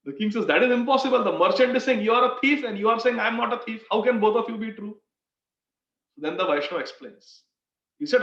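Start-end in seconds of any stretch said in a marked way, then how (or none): 0.5-5.0 raised, emphatic disbelief; incredulous. Retold or imitated. King challenging the thief's contradictory claim, incredulous. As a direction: protest the contradiction, pitch up.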